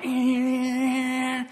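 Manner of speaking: put-on high, careless "eh" of a kid brushing it off; dismissive grunt. Son's dismissive grunt, quoted.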